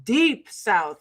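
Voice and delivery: slow, stretched deep South drawl. Shown as a demonstration. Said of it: "very slow and very deep South".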